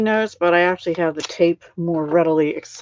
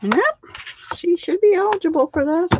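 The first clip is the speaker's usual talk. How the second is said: imitating website reply; 12 semitones higher than usual. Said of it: "I'm like".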